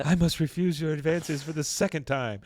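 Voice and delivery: hammed-up formal refusal; soap opera heroine. Heroine refuses Eduardo on the cliff, mock melodrama. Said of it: "a Mexican soap opera".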